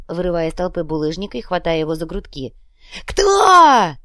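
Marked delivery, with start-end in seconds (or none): 3.1-4.0 very high, loud scream; screamed question. Acted. Fighter screaming at Bulyzhnik. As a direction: scream it in his face.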